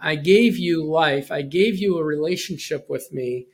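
slow, weighty lines from a frustrated God. Acted. Preacher voicing God's frustration to his people, slow and heavy. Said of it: "the frustration in God's voice here".

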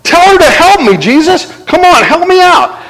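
high, whiny complaint to the Lord; mock frustrated Martha. Martha complains to Jesus about her sister, whiny and high. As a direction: plead with a touch of exasperation. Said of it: "she said to him and said".

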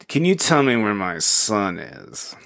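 slow, put-on old lady voice. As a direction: imitate an old lady, drawing the words out. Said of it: "he dresses up as the old lady".

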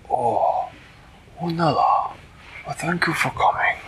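stately storybook cat king; regal cat ruler. Acted. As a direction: greet them grandly from the throne. Flibbertigibbet on his throne greets Manella.

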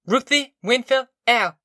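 high-pitched urgent calling of names; mother's fierce call; fierce cry. A narrator's reading. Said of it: "she cried fiercely".

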